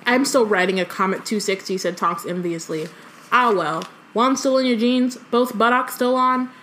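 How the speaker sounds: lively story reading, quotes lightly voiced; reading aloud. A narrator's reading. Co-host reads the chapter aloud, lively storytelling. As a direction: read the book to a friend.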